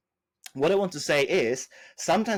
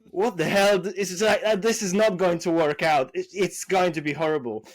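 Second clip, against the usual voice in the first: higher, half-laughing mock panic; retold panic; 4 semitones higher, 3 dB louder than usual. Seller realises the sent price is absurd, mock panic. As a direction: replay the panic with raised pitch. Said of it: "I completely started to panic".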